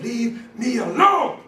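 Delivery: slow, emphatic retold shout; mild mock yell, drawn out. Big Mike yelling at his drunk dad, mild retold shout. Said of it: "he shouted at his dad".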